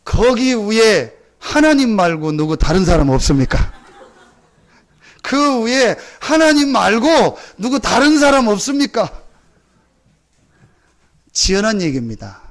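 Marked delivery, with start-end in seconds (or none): 0.0-3.7 slow call up the cliff; drawn-out plea upward. Retold or imitated. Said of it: "목사님이 얘기합니다". 5.2-9.1 higher, slow desperate call; louder calling out. Retold or imitated. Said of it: "목사님이 얘기합니다".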